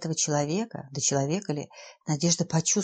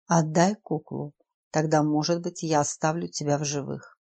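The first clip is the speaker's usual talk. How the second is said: icy colorless voice. Acted. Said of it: "проговорил бесцветным ледяным голосом".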